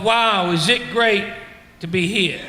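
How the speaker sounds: slow sarcastic "Wow, is it great to be here?"; mock wonder. Asking the crowd if they ever felt this, slowly and sarcastic. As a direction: drag it out, mocking the thought. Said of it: "you thought to yourself".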